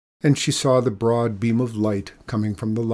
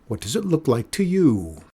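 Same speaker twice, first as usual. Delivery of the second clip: defiant; 3 semitones higher than usual. Acted. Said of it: "shouted Mikola".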